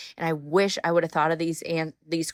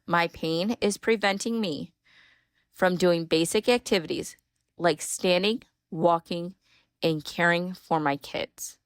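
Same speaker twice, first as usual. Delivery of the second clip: slower, deliberate. Shown as a demonstration. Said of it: "I'll say it slower".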